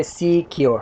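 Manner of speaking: सिक्योर said as two distinct beats, "see-kyor"; teacher's two-part demonstration of सिक्योर; two syllables. Shown as a demonstration. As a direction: mark both syllables of सिक्योर clearly. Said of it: "इसमें दो syllables है".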